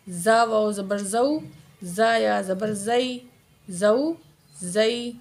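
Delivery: "زا" with a firm buzzing z; hard za. Shown as a demonstration. Teacher drills za for learners, "زا" said hard. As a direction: press firmly on the z of "زو، زئی". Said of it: "زا کو سختی سے پڑھیں گے".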